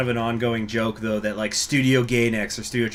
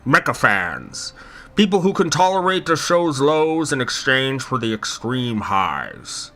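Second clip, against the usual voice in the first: Churchill voice. Pretend. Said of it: "in Winston Churchill's voice".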